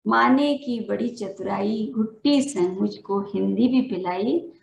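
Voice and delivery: measured, sing-song reading of a poem, lines repeated; poem recitation. Acted. Teacher reciting her poem at a Hindi Day event, rhythmic and measured. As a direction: recite each couplet to the audience, then repeat it.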